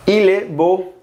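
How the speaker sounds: Il est beau as il e bo; Il est beau, linked and rising; French phrase. Shown as a demonstration. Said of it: "él es bonito".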